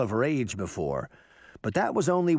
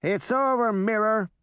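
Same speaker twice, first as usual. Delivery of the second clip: put-on higher, firm boy's challenge; serious, pitched-up character voice; deadly serious; 10 semitones higher, 4 dB louder than usual. A narrator's reading. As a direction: declare it to an enemy with no bravado. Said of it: "he was deadly serious".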